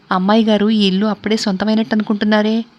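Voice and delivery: lightly mocking, mock-respectful lilt. Friend teasing the lady of the house, lightly mocking. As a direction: tease her with a hint of mock deference. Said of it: "సంజీవి హేళన చేసింది".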